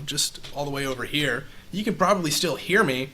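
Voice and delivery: distant, off-mic voice; far from mic. Shown as a demonstration. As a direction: speak from across the room. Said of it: "I'm far away".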